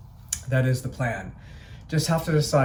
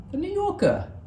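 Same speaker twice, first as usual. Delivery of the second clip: high, odd put-on voice for the name; goofy sign voice. Vlogger spotting the hotel sign, goofy high voice. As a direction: sing out the sign's name in a silly voice. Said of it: "I don't know why you talk that way".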